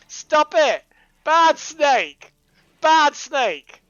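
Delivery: high, loud scold of a naughty snake; scolding a pet. Real, not acted. Player loudly scolding the misbehaving in-game snake, stern scold. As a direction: tell the snake off like a dog.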